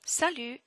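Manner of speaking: "salut" ending on the French u; "salut" with a silent final T. Shown as a demonstration. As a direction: say "salut" as sa-lu, pitched high. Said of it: "no T".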